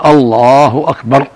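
"الله أكبر" slow, no added hamza or long ba; measured, clean "الله أكبر"; correct takbir. Shown as a demonstration. Sheikh modelling how the muezzin should say it. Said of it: "الواجب على المؤذن والمقيم أن يقول".

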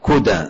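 "كدى" said kudā, with a short u after k; damma on the kaf. Shown as a demonstration. Teacher spelling out the place name, damma on the kaf. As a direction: pronounce "كدى" as KU-dā, rhyming with qurā. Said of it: "بضم الكاف".

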